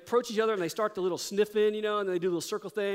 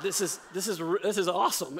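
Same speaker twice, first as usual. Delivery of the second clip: laughing. Retold or imitated. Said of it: "I thought".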